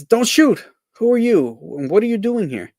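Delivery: startled by strangers on the island; alarmed soldier. Acted. Mac voiced in comic strip.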